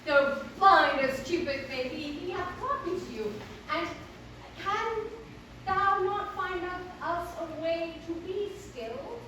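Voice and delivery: theatrical mock-archaic heroine; Selina, pleading lover. Selina begging the hero to find a way, theatrical. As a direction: plead it in halting stage verse.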